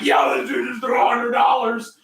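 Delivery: high, excited yell of disbelief; amazed shout. Retold or imitated. Friend yelling about the hundred dollars, high and excited. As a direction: yell it like you can't believe it.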